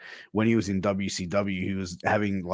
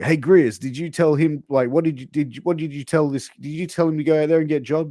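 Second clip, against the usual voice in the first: high, loud impression of a riled boss; Dusty Rhodes; 7 semitones higher, 6 dB louder than usual. Boss confronting Grizzly over the squash, hammed-up impression. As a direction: grill him in a put-on excitable voice. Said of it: "Dusty was like".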